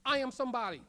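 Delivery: a declaration for others to repeat; from the gut. Shown as a demonstration. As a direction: lead the crowd with conviction. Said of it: "hear it from your gut".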